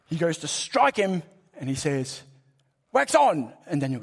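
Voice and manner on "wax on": loud, higher snapped order; sharp command. Retold or imitated. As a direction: bark it mid-strike like a sensei. Miyagi strikes at Daniel.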